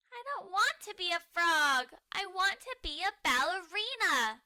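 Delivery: high, loud stubborn whine; loud demand. Acted. Muffin refusing her frog card, loudly demanding. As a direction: insist at full voice like a toddler. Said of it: "Muffin says loudly".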